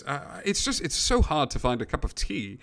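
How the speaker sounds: lightly voiced British gentleman; British accent. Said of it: "speaking with a pretty distinct British accent".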